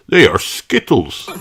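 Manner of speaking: laughing Daddy. Acted. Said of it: "laughs Daddy Pig".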